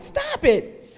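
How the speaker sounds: a hammed-up high cry, laughing; high laughing plea. Teacup squeals at the painter to stop, laughing. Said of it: "I cried".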